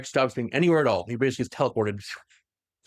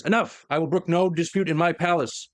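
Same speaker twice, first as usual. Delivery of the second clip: lightly voiced booming ruler, raised pitch; a hint of a giant, resonant voice; giant commanding voice; 4 semitones higher than usual. Emperor cuts off a dispute in his palace, giant commanding voice. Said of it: "a giant voice says".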